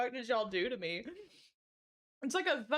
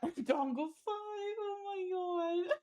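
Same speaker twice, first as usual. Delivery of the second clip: higher-pitched, helpless laughter breaking through the words; laughing too hard; 6 semitones higher, 4 dB quieter, much slower than usual. Real, not acted. Streamer cracking up at chat's dongle jokes, laughing too hard. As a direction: squeeze the words out while laughing. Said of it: "making me laugh too hard".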